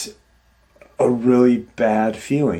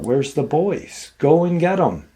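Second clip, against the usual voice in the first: mild mock yell with raised pitch; higher, half-voiced holler; retold yell; 6 semitones higher than usual. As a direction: call out to the boys without full volume. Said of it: "she yells out".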